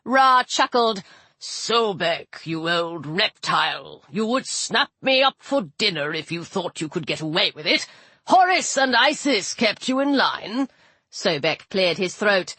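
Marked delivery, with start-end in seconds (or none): 1.4-10.7 put-on old sun god voice.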